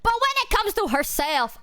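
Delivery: high-pitched exasperation; high incredulous complaint; exasperated contrast. Real, not acted. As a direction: pitch it way up in playful dismay. Contrasts friend's toughness with self-neglect.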